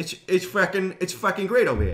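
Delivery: put-on Bostonian accent; mock Boston accent. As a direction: talk like a Bostonian. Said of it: "That there is perfect Boston accent".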